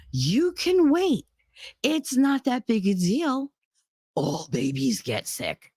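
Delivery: high, drawn-out mocking nurse, dropping at the end; slow sing-song condescension; dismissive nurse. Nurse brushing off a worried mother, mocking and dismissive.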